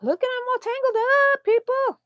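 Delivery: put-on high, loud baby-talk coo. Talking to the tangled yarn, high sing-song coo. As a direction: coo at them like they're babies.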